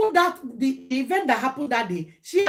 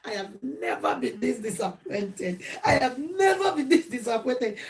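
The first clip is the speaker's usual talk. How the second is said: mock tearful wail with laughter creeping in; hammed-up sobbing complaint; imitated crying; 4 dB quieter than usual. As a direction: mimic a weeping friend, half laughing. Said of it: "she was telling me she was crying".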